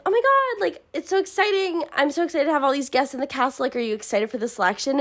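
high, fast, bubbly gush; gushing excited girl. Retold or imitated. Josie gushing to Edelyn about the guests, high and bubbly. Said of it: "She comes up to Edelyn and is like".

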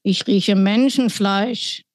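sniffing giant. Acted.

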